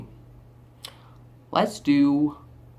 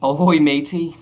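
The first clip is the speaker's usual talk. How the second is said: mock pirate; 6 dB louder than usual. Mock pirate try before Scottish attempt.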